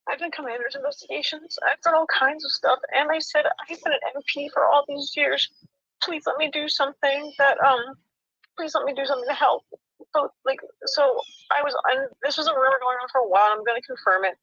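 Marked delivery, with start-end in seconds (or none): 0.1-9.6 tearful. Real, not acted. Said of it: "Never seen military person cry so much".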